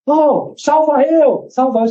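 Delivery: high, slow, stretched-out call for help; imitated plea. Customer with broken starter motor begging help, imitated plea. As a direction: mimic a customer begging a favour.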